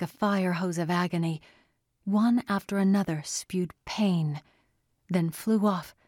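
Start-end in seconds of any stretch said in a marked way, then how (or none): none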